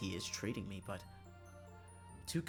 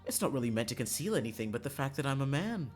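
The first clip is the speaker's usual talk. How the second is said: theatrical Karma; 2 semitones higher, 5 dB louder than usual. Acted. Karma explains the disguise to Lavender, theatrical. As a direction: swoop in grandly, then explain lightly.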